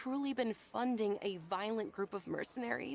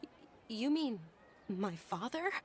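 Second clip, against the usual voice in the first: shocked whisper. Acted. Shocked at news of father.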